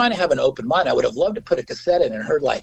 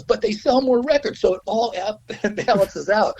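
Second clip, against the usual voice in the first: lawyer; 8 semitones higher than usual. Retold or imitated. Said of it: "he goes".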